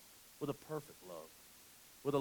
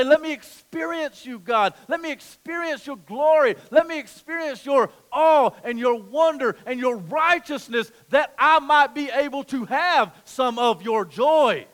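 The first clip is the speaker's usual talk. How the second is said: pleading prayer; 11 semitones higher, 15 dB louder than usual. Retold or imitated. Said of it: "We get on our face and we say".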